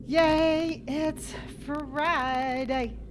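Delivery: slow, drawn-out it's Friday; sing-song Friday. Acted. Streamer repeating the Friday cheer, drawn out. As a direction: stretch it's Friday out lazily. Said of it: "I don't know why I'm saying it like that".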